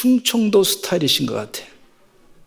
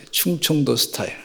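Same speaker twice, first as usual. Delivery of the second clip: laughing; 3 semitones lower, 7 dB quieter than usual. Real, not acted. Laughs at the punchline.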